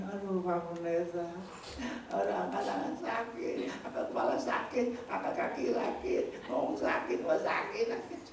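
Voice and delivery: slow, feeble whimper of a sick complainer; whiny complaining. Retold or imitated. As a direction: moan each ache to the pastor. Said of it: "jangan ngomong itu gini".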